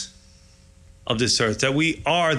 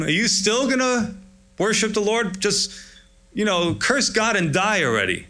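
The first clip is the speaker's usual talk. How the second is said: mock wife; 7 semitones higher than usual. Job's wife voiced mocking.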